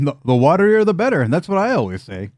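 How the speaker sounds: high, cheerful gnome voice; Nimax in character. Acted. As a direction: relish the watery soup.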